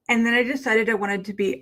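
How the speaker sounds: lisping through plastic fangs. Real, not acted. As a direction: fangs in, words lisped. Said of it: "I sound like I have a lisp".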